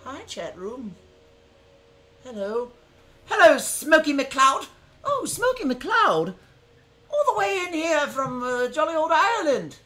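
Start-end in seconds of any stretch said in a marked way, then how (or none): 3.3-8.4 big greeting. Real, not acted. Streamer greeting a chat viewer with delight. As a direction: welcome him in with delight.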